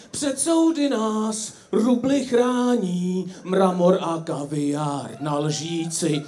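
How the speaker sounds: slow, solemn poem recital; recited verse. Retold or imitated. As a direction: read it out like a sentimental poem, slowly. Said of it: "A Zdeněk Svirák o tom napsal verše". (pomalý slavnostní přednes verše)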